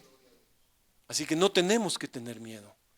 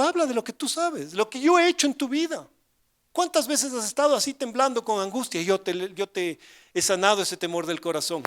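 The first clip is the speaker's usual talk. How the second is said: voice of the Lord; 5 semitones higher than usual. Retold or imitated. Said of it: "Y el Señor me dijo".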